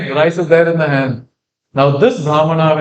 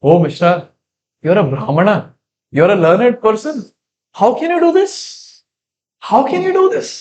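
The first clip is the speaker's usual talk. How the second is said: pleading rebuke; 3 semitones higher than usual. Acted. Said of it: "this Brahmana is training Jagannath Mishra".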